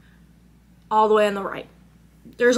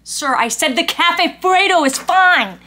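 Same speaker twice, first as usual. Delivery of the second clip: firm insistence; 5 semitones higher, 4 dB louder than usual. Retold or imitated. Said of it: "I'm like".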